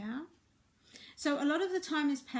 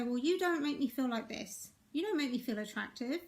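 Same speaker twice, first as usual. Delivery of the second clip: accusing partner. Shown as a demonstration. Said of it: "We're more likely to say".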